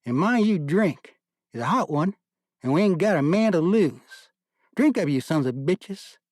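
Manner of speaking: slow, high, loud Southern drawl urging the men. A narrator's reading. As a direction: bark the order out in a lanky Southern drawl. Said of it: "his lanky Southern drawl".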